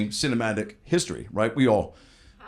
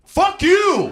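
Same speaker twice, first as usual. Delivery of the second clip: high, loud mock outburst at a kid; man in the theater yelling at a kid, loud mock anger; angry fuck you; 7 dB louder than usual. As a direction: snap it back like an offended moviegoer. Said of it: "a grown man turned around and looked at me and goes".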